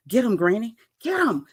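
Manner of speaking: urging her on, rising at the end; retold cheer, lightly egging her on; root for her, pitch climbing on the repeat. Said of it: "I was cheering for her".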